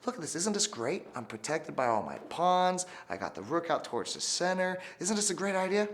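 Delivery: high pleading little king; king Louis begging Francis to allow his move. Acted. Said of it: "Lonely King Louis begged and said".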